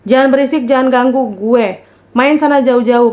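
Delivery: retold telling-off with a firm push; mild scolding. Student chasing noisy ghosts away from their report, mildly scolding. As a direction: shoo them away, mock-annoyed. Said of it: "gue marahin aja semua".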